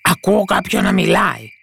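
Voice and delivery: lightly acted alarm; frightened robber. A narrator's reading. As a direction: report it with a touch of fright. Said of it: "ρώτησε τρομαγμένος ο ένας ληστής".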